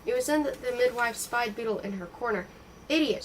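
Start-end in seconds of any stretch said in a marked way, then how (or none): 2.9-3.2 higher, louder insult; shout. Acted. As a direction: shout it at the girl. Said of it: "she shouted".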